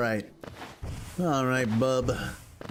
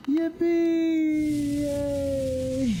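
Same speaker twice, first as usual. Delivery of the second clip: high squeaky cheer; much slower than usual. Pretend. Cheering in game.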